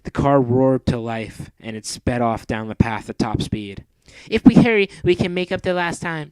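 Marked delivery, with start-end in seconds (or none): 4.3-6.3 much higher, louder urgent voice; Mandy urgent. Acted. Mandy speeding to Grand Metropolis, high and urgent. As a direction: hurry him along.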